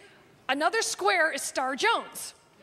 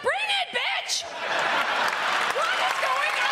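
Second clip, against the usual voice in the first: hammed-up high-pitched taunt; mock challenge; 12 semitones higher than usual. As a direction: dare her, squealing. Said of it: "I'm like".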